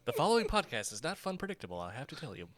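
quick mock warning, fast; fast legal disclaimer. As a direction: rush it like an ad disclaimer.

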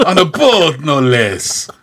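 slow, high Irish brogue sliding into pirate; pirate-ish Irish accent. Retold or imitated. Host explaining how his Irish accent slides into pirate. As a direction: play O'Hara, all brogue and pirate. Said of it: "every time I try to do an Irish accent".

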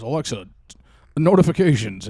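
loud barked command; imitating dad. Dad clearing Alexa's light, loud mock bark. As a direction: snap the word at the device. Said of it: "he goes".

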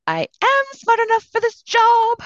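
high, loud silly sing-song; goofy sing-song voice. Shown as a demonstration. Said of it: "I will do it in a goofy way".

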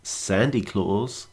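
slow deadpan punchline; telling a dad joke. Acted. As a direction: drag the punchline out slowly. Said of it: "that's a dad joke".

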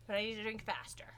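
whispered aside. Real, not acted. Aside while drinking.

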